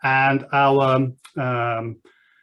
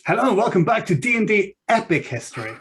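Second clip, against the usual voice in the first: higher, bolder announcer intro; 5 semitones higher than usual. Shown as a demonstration. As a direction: open the show like a presenter. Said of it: "I'm gonna try again".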